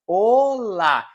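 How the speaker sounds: "olá" drawn out in two syllables, Portuguese style; teacher's model Portuguese "olá"; Portuguese pronunciation. Shown as a demonstration. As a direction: say "olá" slowly the Portuguese way, stretching the first vowel. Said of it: "take care, uh, with the pronunciation".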